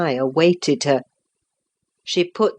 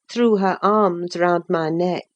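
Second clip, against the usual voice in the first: ordinary delivery, nothing marked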